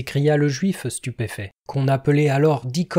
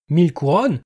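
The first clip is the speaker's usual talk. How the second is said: aghast moan; 2 semitones higher, 4 dB louder than usual. Acted. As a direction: repeat the sum in horror. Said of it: "gémit Isaac".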